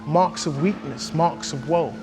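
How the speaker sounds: measured, emphatic poetry reading; poem recitation. Acted. Hip-hop artist performing Blake's angry London poem, emphatic recitation. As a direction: recite it with punched key words and deliberate pauses.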